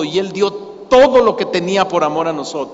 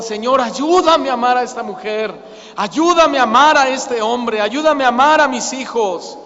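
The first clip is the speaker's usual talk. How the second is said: "ayúdame" cried out, raised and urgent; a heart crying out to God; pleading prayer; 3 semitones higher than usual. Acted. Believer cries to God for help to love, pleading. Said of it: "Le gritas a Dios".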